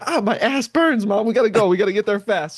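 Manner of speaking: pained urgent plea. Retold or imitated. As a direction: urge mom to hurry through the burning. Begging mom to hurry, in pain.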